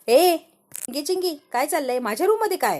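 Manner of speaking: high, sharp challenge; indignant call-out. Acted. Anika finds the girls in her room, indignant. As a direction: catch the intruders in your room. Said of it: "तेवढ्यात काय अनिका येते".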